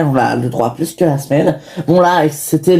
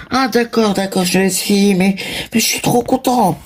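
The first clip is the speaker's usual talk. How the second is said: put-on 1 child voice; 5 semitones higher than usual. Child voice role in skit.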